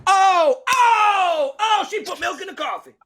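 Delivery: wildly excited high hollering; over-the-top game-show host outburst; Steve Harvey. Acted. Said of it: "he just gets so excited".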